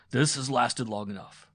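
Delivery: loud, building fury; rising to a shout of betrayal; jealous husband accusing his wife of an affair; angry accusation. A narrator's reading.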